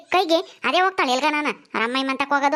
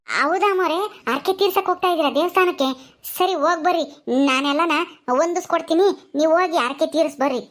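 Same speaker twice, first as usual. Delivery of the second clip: obliging servant Gulabi. Acted. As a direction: answer the mistress obligingly, in a raised lilt.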